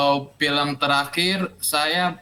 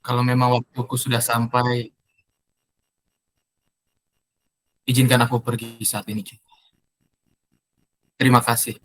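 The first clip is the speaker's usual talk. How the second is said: fake crying; 4 semitones lower than usual. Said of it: "bisa acting nangis nggak?".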